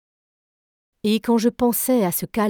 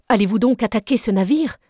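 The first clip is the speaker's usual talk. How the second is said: alarmed plea; 3 semitones higher, 4 dB louder than usual. Acted. M'écriai-je.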